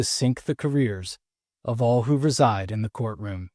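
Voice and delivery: scripted trailer-style narration; dramatic intro read. Acted. Host sets up the courtroom drama for listeners, dramatic intro read. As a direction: read it as a measured, dramatic podcast cold open.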